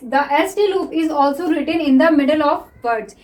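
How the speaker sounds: reads the rule out word by word, very slowly; slow dictation. Shown as a demonstration. Teacher dictating a rule to students, very slow. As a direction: spell the rule out slowly so students can copy it. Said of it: "teacher dictates a rule".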